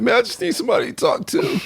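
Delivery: put-on, very high, near-sobbing, tearful crying voice. Acting out what the liar might say next: imitating someone crying. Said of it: "Now he might start crying".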